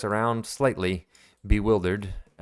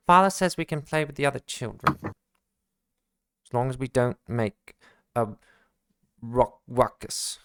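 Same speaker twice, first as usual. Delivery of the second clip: put-on eager child; 2 semitones higher than usual. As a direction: rush it out like an excited kid. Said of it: "comes back to Malachi and says".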